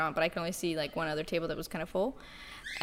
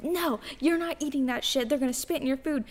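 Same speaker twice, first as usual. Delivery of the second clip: higher-pitched imitation of a bossy refusal; mock indignant wife; 6 semitones higher than usual. Friend imitates a Karen scolding her husband, mildly indignant. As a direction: lightly act out a wife forbidding her husband. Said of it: "she's like".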